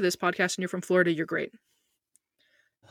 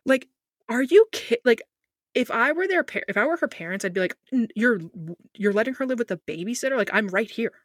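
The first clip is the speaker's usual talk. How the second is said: higher, louder mock disbelief; incredulous parent; 5 semitones higher, 5 dB louder than usual. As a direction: protest like a stunned parent, pitched up. Outraged as hypothetical parent of Casey.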